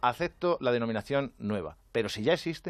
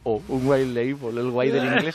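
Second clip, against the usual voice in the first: slow, louder sneering put-down; mock the show-off English speaker; drawn-out teasing "Oh, un white label"; 7 dB louder, slower than usual. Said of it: "la gente va a decir".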